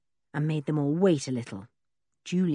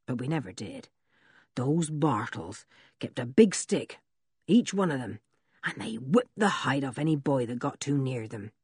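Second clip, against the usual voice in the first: lower, gruff country voice; rough old blacksmith; 4 semitones lower, 5 dB quieter than usual. Acted. Blacksmith Ben's voice.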